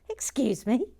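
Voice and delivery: mock-prim whispered excuse me. Host primly whispering at Sharon's confession. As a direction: hush it primly.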